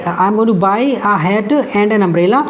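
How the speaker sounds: very slow, each word spaced out; slow dictation. Shown as a demonstration. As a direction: spell it out slowly for students. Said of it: "देखो". (धीरे-धीरे पढ़ना)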